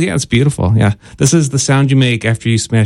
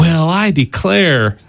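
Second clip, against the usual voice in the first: put-on southern accent; 4 semitones higher, slower than usual. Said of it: "Why is your voice getting southern sounding".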